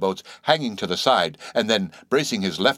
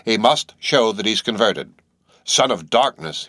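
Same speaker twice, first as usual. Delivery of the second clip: lightly voiced hollow old captain; a hint of a stern old preacher; 4 dB louder than usual. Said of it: "in his hollow voice".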